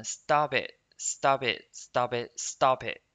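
"Stop it" run together as one word; linked pronunciation. Shown as a demonstration. Teacher showing students the linked sound, linked "Stop it". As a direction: link the p of "Stop" straight into "it". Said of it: "这里呢是可以连读的哦".

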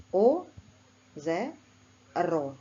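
озеро split into о, зе, ро with a loud first syllable; syllable demo. Shown as a demonstration. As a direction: break озеро into three syllables with pauses. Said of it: "Наприклад".

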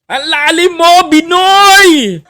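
high, laughing cry of mock awe; squealing, teasing praise; mock amazement. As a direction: gush over it like a stunned fan, half laughing. Mock awe at senator's deep Tagalog.

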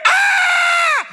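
high hammed-up scream of fear; mock manly scream. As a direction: let out a comic frightened scream. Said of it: "A very manly cry".

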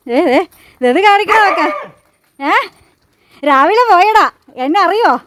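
high, loud, playful scolding of a pet; teasing pet talk. Acted. Owner teasing her dog hiding between the barrels, high loud pet talk. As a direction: tease the dog like a naughty little boy, up high and loud.

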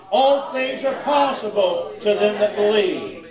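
slow, emphatic declaration; like you mean it. Shown as a demonstration. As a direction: draw it out with full conviction. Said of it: "Now say it like you mean it".

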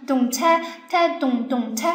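second drum rhythm voiced in dum-tek syllables; spoken drum pattern. Shown as a demonstration. Teacher shows another drum pattern, spoken rhythmic beats. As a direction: beat out the rhythm with the voice. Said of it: "还有另一种方式".

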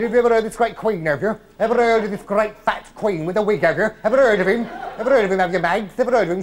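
teasing laugh. Acted. Mocking friend with teasing questions.

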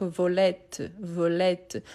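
slow "volette", ending in an open "-ett"; open-e pronunciation. Shown as a demonstration. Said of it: "pour ouvrir la prononciation".

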